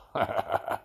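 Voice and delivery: hedgehog's gloating little laugh; acted crafty snicker; sly chuckle. A narrator's reading. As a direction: chuckle privately at your own scheme.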